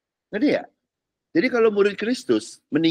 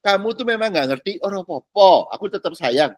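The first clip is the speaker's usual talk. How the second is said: gentle comforting God; 3 semitones higher than usual. Acted.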